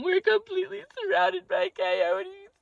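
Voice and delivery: high wailing sob, slow, hammed-up; mock bawling. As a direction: wail it like you're about to be eaten. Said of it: "People, I'm bawling".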